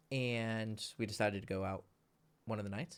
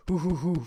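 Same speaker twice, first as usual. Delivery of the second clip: monkey hoots; 6 semitones higher, 6 dB louder than usual. Pretend. Monkey noises.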